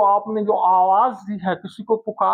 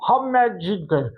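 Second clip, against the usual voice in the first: a burst of joy at the win; excited cheer. Shown as a demonstration. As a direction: cheer hurray and wow before the line. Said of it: "ये जो लफ्ज आया है हुर्रे".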